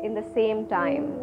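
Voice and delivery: measured meditation guidance with long pauses; guided meditation. Real, not acted. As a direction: lead the breath, leaving space between phrases. Leads breathing meditation. (guided breathing meditation)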